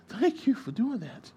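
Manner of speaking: high, slow, drawn-out thanks; imitated grateful girlfriend. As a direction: mimic a girlfriend gushing with gratitude.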